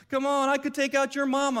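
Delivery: mock smack talk. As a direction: tease like a bully trash-talking across a valley. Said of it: "he's talking smack".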